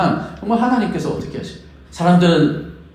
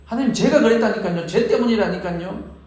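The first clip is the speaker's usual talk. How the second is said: making excuses; 3 semitones higher than usual. Retold or imitated. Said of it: "라고 핑계 댈 것이".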